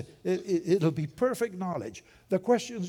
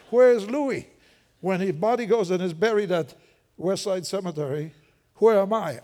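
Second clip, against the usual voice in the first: ringing rhetorical question; 2 semitones higher, 5 dB louder than usual. Acted. Rhetorical question about his burial.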